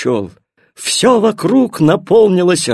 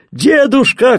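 high-pitched call to grandfather; boy's cry; 8 semitones higher, 4 dB louder than usual. A narrator's reading. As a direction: call out eagerly, as a child would. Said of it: "крикнул Тильтиль". (звонкий окрик)

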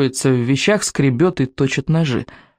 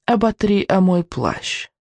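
witch voice; 4 semitones higher, slower than usual. Acted. Witch hands over object.

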